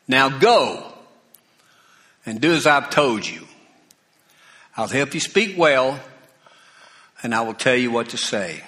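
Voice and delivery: God gets firm with a reluctant Moses. Retold or imitated. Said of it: "now you're gonna get firm with him".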